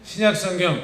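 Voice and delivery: measured teacher's prompt, pausing after; leading group repetition. Real, not acted. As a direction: call it out for the congregation to echo. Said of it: "따라합시다".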